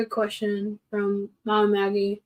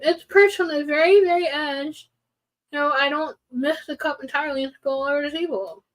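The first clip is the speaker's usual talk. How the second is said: higher-pitched self-defence; defensive protest; 5 semitones higher than usual. Real, not acted. Explaining the finger on the cup's edge, defensive protest. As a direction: argue your case, pitched up. Defends pouring method against teasing.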